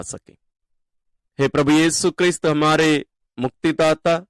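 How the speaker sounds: earnest, level-toned devotional prayer; spoken prayer. Real, not acted. Teacher addressing God on behalf of listeners, in steady prayer. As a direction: pray in even, measured phrases with little melodic swing.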